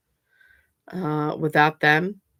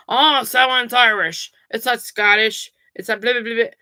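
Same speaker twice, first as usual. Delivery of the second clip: higher, louder mock of a know-it-all; 5 semitones higher, 5 dB louder than usual. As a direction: parody the person who insists it's only Irish. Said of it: "So if somebody tells you".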